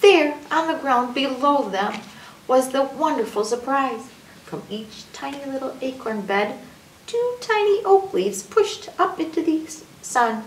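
lifted, wondering story voice; storybook narration. A narrator's reading. Narrator reveals sprouting acorns to children, animated story voice. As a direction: unveil the surprise for listening children.

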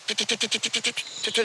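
mimicking finches squabbling while feeding; goldfinch tütü call. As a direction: peep it fast like quarrelling finches.

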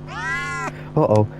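alarmed sing-song uh-oh. Real, not acted. Player spotting danger in the game, startled uh-oh.

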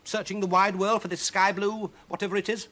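high-pitched angry complaint; snarling. Acted. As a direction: complain crossly in a high witch voice. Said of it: "snarled the witch".

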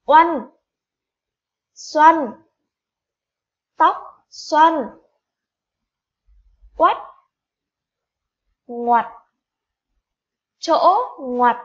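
each word called out loud and clear with a pause after; read-along model. Shown as a demonstration. Teacher leads class reading back new words, loud and clear. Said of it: "Hãy cùng đọc lại với cô nào".

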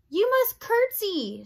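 slow, high, loud call; shouted order. A narrator's reading. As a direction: shout it slowly to someone hard of hearing. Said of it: "shouted Louise".

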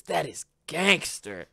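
slow, high mock Guy Fieri; Guy Fieri catchphrase. Friend mimics Guy Fieri tasting food, slow and high. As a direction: stretch it out like a hyped TV chef. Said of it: "he always says".

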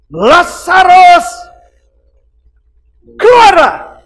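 long booming call, stretched slow; Jesus calling Lazarus out. Acted. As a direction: call the dead man out of the tomb. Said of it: "Yesus berseru seperti ini".

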